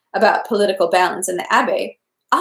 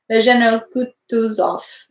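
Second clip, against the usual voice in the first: Kutuzov said French-style, with the weight landing on the final syllable; Kutuzov, leaning on the last syllable; stress on the last syllable. A narrator's reading. Prince correcting the name's pronunciation, stressing the last syllable. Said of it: "emphasizing the last syllable".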